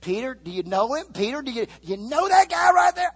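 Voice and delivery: rising to a high, loud demand; accusing shout. Acted. Bystander calling out Peter, building to a shout. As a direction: point him out to the crowd.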